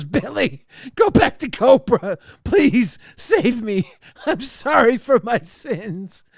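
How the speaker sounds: high, pleading, slowed-down plea; pleading chat voice. Acted. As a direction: beg for forgiveness, hammed up. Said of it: "Lol Calguna says".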